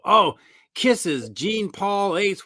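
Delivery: high eager fan naming the band; fan excitement. Retold or imitated. Fans to a producer, high eager gushing. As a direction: gush like a proud fan. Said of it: "they go".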